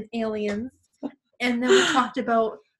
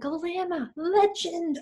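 higher, cheering her name; excited greeting; 8 semitones higher, much slower than usual. Retold or imitated. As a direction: hail her like a hero. Guy greets her at the bar.

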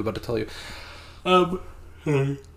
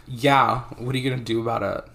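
bitchy. Retold or imitated. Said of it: "Like, really bitchy".

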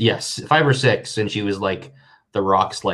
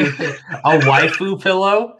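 slow, high disbelieving question; incredulous; 6 semitones higher, 4 dB louder, much slower than usual. Real, not acted. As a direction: stretch it out in disbelief.

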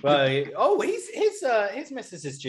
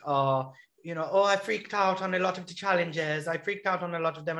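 Huey voice. Retold or imitated. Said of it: "I love your Huey impression".

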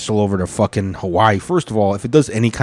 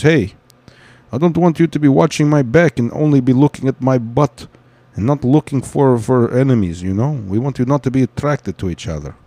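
hammed-up Turkish accent; Turkish accent impression; 3 semitones higher than usual. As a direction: imitate a heavy Turkish accent, mock-serious. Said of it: "and they talk like this".

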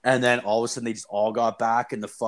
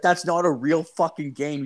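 panicked buddy; 5 semitones higher than usual. Retold or imitated. Buddy grabbing his friend to flee, imitated panic. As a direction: plead urgently, pitched up, as a retold panic.

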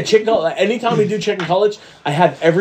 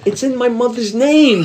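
slow, slightly higher mobster delivery; drawn-out film quote, lightly acted; movie mobster quote; 4 semitones higher, slower than usual. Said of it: "My favorite De Niro line".

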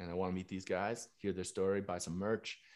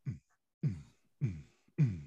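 short, evenly spaced "mm" thumps; imitated thumping beat; 3 semitones lower than usual. Storyteller turns a corner toward a hidden club, imitated bass thumps. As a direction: hum a muffled club beat in pulses.

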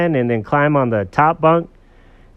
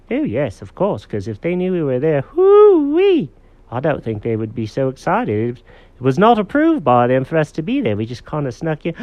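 lightly voiced cat, pitched up; animated, higher cartoon-cat voice; chatty cat character; 5 semitones higher, 4 dB louder than usual. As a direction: confess as a storybook cat, with a high whoop.

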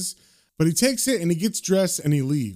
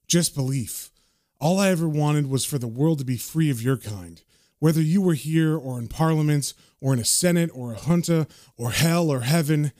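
lightly acted, subdued closing monologue, mostly low; a hint of solemn voice-over; John's narration; 3 semitones lower than usual. John addresses Big Ben before he dies, low and subdued. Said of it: "the narration says".

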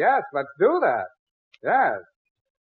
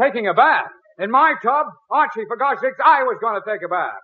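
indignant; 6 semitones higher than usual. Acted. Indignant at son in his tub.

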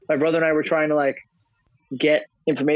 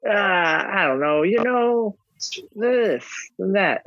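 vague dad voice; 5 semitones higher, much slower than usual. Retold or imitated. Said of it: "the answers are like".

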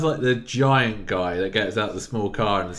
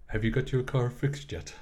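an un-Irish, flat American version of the line; plain American read; 4 dB quieter than usual. Retold or imitated. Arguing the actor sounds American, mock neutral read. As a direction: say it with no Irish accent at all. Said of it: "he is literally like".

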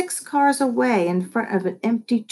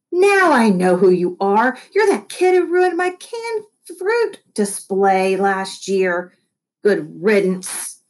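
shouting boss; slower than usual. Acted. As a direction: call it out across the lot. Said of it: "Mister Schnod shouted after me".

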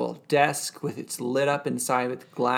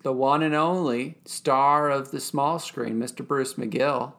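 mock announcer. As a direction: present a star with deliberate pomp. Mock grand introduction of an actor.

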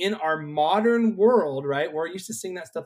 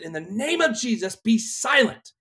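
commanding rebuke; 5 semitones higher, 3 dB louder than usual. Retold or imitated. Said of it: "And so I said".

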